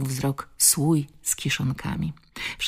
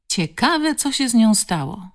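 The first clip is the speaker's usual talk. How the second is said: high, inquisitive village woman; curious gossip; 7 semitones higher, 4 dB louder than usual. A narrator's reading. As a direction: wonder aloud, pitched up with curiosity. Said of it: "zainteresowała się druga baba". (zaciekawiony głos plotkarki)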